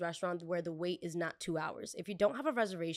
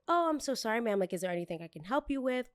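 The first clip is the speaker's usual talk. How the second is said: high, sugary polite server voice; bright customer-service lilt, pitched way up; 4 semitones higher than usual. Pretend. A waitress sweetly greeting a demanding guest, in her high server voice. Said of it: "This is my server voice".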